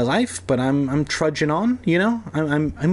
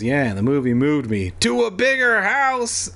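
Krusty impression; 2 semitones higher than usual. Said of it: "and Krusty goes".

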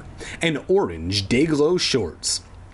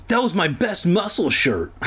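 gritted teeth; 6 semitones higher than usual. Acted. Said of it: "through gritted teeth".

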